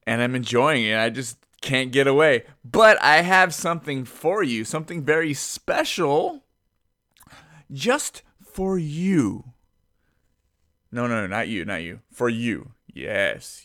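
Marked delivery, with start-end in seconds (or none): 2.6-9.5 teasing build-up. Pretend. Teasing a special gift.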